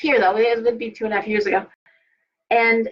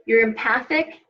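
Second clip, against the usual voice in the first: ordinary talk, nothing marked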